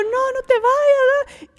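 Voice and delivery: high, slow wailing plea; pleading husband crying. Retold or imitated. Husband crying after his departing wife, high slow wail. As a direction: beg her not to leave, voice breaking high. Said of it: "este esposo detrás de ella llorando".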